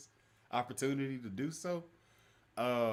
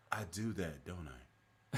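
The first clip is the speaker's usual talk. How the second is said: put-on Wisconsin accent; 5 semitones lower, 5 dB quieter, slower than usual. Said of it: "And he was like".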